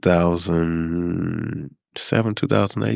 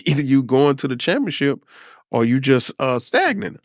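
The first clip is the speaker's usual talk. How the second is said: higher, amused, half-laughing; laughing while talking; 8 semitones higher than usual. Retold or imitated. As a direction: chuckle through the line. Tells boss, laughing, about championship.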